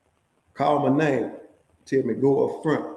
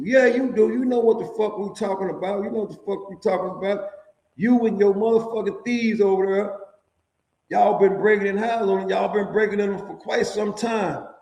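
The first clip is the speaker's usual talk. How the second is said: imitated guard, pitched way up and jeering; mock accusing officer; 7 semitones higher than usual. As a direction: accuse him like a mocking officer. Officer accusing him of burglaries.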